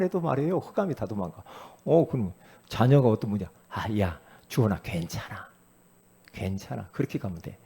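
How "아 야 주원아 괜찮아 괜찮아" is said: gentle comfort. Retold or imitated. Mother comforting her child.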